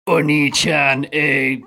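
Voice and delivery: a grown man playing cute anime sister; anime little sister. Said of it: "my Emoto-chan impression".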